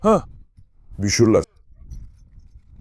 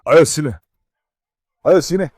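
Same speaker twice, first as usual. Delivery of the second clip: calling the dog; 5 dB louder than usual. Real, not acted. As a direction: coax the dog over, building up. Memanggil anjing berulang kali. (memanggil anjing, makin tinggi dan keras)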